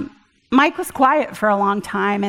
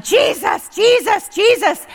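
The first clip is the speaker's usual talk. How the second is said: high, insistent repetition of the name; repeated calling; 9 semitones higher, slower than usual. Retold or imitated. Calling the name to drive her brother out, high and insistent. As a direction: chant the name, higher each time. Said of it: "I just started going".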